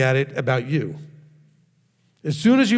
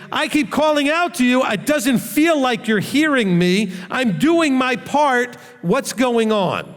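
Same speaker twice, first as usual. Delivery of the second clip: high, slow, puzzled plea; confused frustration; 8 semitones higher, slower than usual. Retold or imitated. David pleading to God, confused and hurt. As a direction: ask honestly, lost and a bit frustrated. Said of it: "David was just getting a little frustrated".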